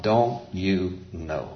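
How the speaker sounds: soft, very slow, word by word; hushed, simple, drawn-out asking; kindergarten-level question. Acted. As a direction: gently spell it out for a small child. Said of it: "comes right into the kindergarten level".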